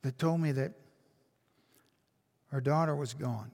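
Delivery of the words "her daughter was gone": normal talking voice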